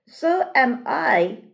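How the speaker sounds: rubber duck. Acted. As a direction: quack it like a toy duck. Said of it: "the duck quacked".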